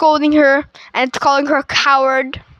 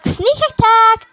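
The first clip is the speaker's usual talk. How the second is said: mock battle cry; 8 semitones higher than usual. Steve springs an attack on Malgosha, mock battle cry. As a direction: call out a playful ambush, pitched up.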